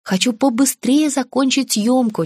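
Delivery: sincere. Acted. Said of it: "честно ответила я".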